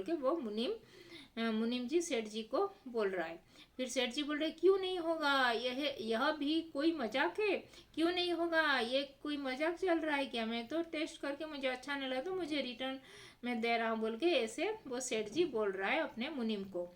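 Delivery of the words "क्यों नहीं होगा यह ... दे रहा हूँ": indignant seth. Acted. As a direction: argue back like an offended stingy boss. Seth voiced arguing with munim. (सेठ जी मुनीम से भड़ककर, ऊँची तेज़ आवाज़ में)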